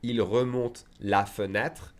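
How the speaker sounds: slow, every syllable sounded, fenêtre in full; slow careful teacher read; said slowly. Shown as a demonstration. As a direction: spell it out slowly for a learner.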